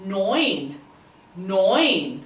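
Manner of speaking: neun said as "noyn"; oi sound. Shown as a demonstration. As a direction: give neun an oi vowel, falling at the end. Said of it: "it gives the oi sound".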